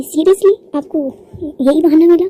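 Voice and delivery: scoff, seriously, that excuse; incredulous butler. A narrator's reading. Butler glaring at the hero over his excuse: incredulous.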